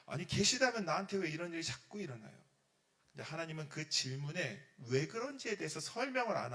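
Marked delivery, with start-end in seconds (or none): 0.0-2.4 acted grumbling at God, a bit louder; resentful complaint. A believer blames God for troubles, resentful complaint. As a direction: protest with mild exasperation. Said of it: "하나님한테 막 원망합니다".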